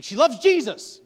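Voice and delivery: shouted high, comic despair; hammed-up wail. Son to mom, high loud comic wail. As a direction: cry it out like it's a tragedy. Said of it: "I was like".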